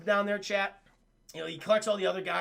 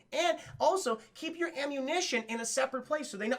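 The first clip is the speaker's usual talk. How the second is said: mock PSA; 3 semitones higher than usual. Elisa's lesson turns into advice for parents, mock PSA. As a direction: lecture the parents like a safety spot. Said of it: "that's a fucking P S A".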